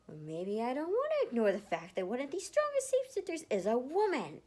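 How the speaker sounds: indignant rant, voice rising; heated retort. Acted. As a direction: push back hard, raising the voice. Heated argument with Matthew.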